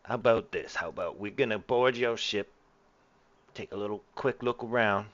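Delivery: lightly voiced gangster; a hint of gangster in the voice. Crook laying out terms for boarding the ship, lightly voiced gangster. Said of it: "like a gangster or something".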